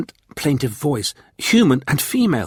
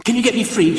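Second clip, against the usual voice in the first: pleading; 11 semitones higher, faster than usual. A narrator's reading. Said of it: "she pleaded".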